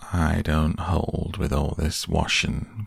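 slow gloomy donkey grumble; grumbling Eeyore. Acted. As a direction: grumble it slowly. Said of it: "grumbled Eeyore".

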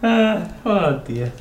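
high snort of laughter; snort-laugh then catch breath. Real, not acted. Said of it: "Did you just snort?".

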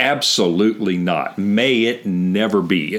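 slow, emphatic refusal; emphatic denial. Retold or imitated. Voicing Paul's answer to a question on sin, emphatic. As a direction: draw out MAY IT NEVER BE word by word. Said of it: "it's an emphatic".

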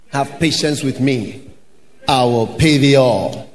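low, soft pleading servant; a hint of a begging servant. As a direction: beg for mercy, low and small. Pleading servant quoted in parable.

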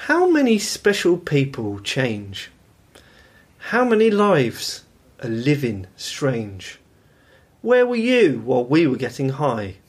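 slow, deliberate recital of lyrics; slow lyric reading. Acted. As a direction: read the lines out slowly, spaced. Reads lyrics as a quiz.

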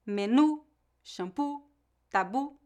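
"menu, shampoo, tabu" as careful examples, leaning on each final u sound; final-syllable stress. Shown as a demonstration. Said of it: "têm a tônica na última sílaba".

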